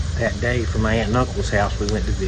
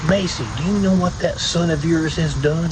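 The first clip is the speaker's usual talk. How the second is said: imitated indignant complaint, pitched higher; mad grandfather; 5 semitones higher than usual. Grandfather telling on the boy to his daughter, mad. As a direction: report the boy's misdeed, mock-outraged. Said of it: "oh, he was mad".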